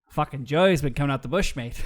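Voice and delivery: put-on botched Australian accent drifting Irish; muddled Irish-Australian accent. Host jokes about Joey, muddled Irish-Australian accent. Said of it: "do it in an Australian accent, not Irish".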